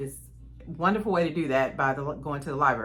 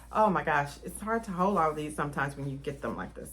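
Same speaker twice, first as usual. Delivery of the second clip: normal talking voice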